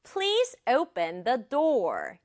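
"Please open the door" slowly, beat by beat; rhythmic emphasis. Shown as a demonstration. Teacher modelling today's first sentence, slow rhythmic stress. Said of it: "리듬 살려 말하기".

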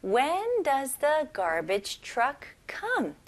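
slow, careful English model reading; slow model sentence. Shown as a demonstration. Teacher reading the second example slowly. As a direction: read it slowly for learners to copy. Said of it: "두 번째 문장입니다".

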